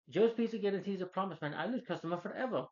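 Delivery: high, loud put-on boss voice; irate pizza boss. Pizza boss complaining to Parker about lost customers, mock indignant scolding. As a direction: scold like a fed-up pizzeria owner. Acting out boss's rebuke.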